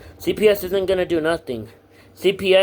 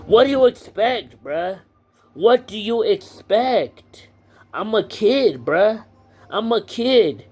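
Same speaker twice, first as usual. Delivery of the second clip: higher, louder, exasperated outburst; heated rant; 5 semitones higher, 4 dB louder, slower than usual. Real, not acted. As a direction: vent at him, voice climbing. Ranting at the therapist.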